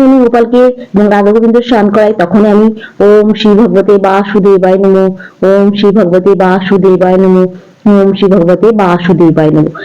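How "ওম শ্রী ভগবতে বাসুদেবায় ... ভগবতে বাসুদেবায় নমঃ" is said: slow, devout mantra chant; mantra recitation. Real, not acted. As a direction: recite the mantra slowly three times, with reverence. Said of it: "এই তিনবার এই মন্ত্রটা আমি উচ্চারণ করি". (ধীরে ভক্তিভরে মন্ত্র উচ্চারণ)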